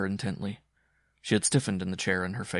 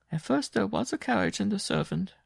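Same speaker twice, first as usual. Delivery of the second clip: raised-pitch weary circus strongwoman; a worn-out woman telling her hardship; Jean's voice; 12 semitones higher, 3 dB louder than usual. Acted. To Simon, recounting the wolf-dog, higher worn voice. Jean, tearful.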